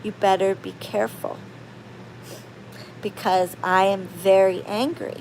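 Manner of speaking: restrained anger, kept low; low and calm anger. Shown as a demonstration. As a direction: speak softly, controlled, as a warning. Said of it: "I talk very low and calm".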